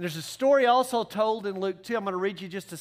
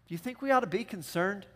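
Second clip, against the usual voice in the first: deadpan understatement; 4 dB quieter, faster than usual. Retold or imitated. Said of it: "Joseph looks at Mary and says".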